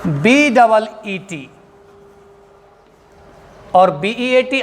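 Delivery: slow, letter by letter; spelling out slowly. Shown as a demonstration. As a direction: spell each letter out clearly for the class. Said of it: "इसकी spelling अलग है बच्चों". (अक्षर-अक्षर धीरे बोलना)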